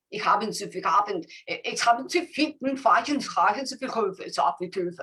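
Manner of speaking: mock German, fast, made-up words; fake German gibberish. Shown as a demonstration. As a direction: pretend to speak German. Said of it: "I pretend to speak German".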